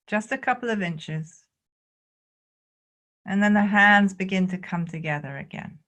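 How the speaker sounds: calm, measured guiding with long pauses; spacious meditation instruction; guided qigong meditation. Real, not acted. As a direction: lead them gently through each movement, unhurried.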